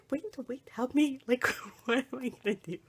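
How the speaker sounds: pleading for help. Retold or imitated. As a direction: call after someone, half laughing. Begging departing mother for help.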